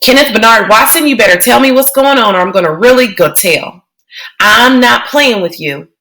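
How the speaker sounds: put-on little girl doing her mother's stern full-name scolding; a kid's mock-stern mother voice; imitating Mama. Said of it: "Joey was imitating Mama".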